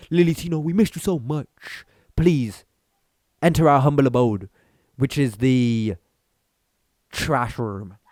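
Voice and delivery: a lightly put-on gushing voice, slowing into the punchline; a hint of a lovesick suitor inviting her in; mock adoring fan. Pretending fans beg Lily Tino to return, in a lightly mocking gush. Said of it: "on their knees like".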